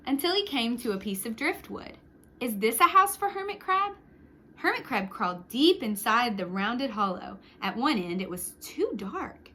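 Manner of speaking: put-on lively read-aloud for children; storyteller voice for kids; story narration. A narrator's reading. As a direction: tell it like a picture book to a class. Reads picture book aloud.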